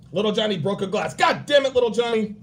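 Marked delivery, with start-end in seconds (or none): 1.1-2.4 higher, louder mock blow-up at a kid; hammed-up angry father; mock angry dad. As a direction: snap at little Johnny, hammed-up. Dad snapping at his kid.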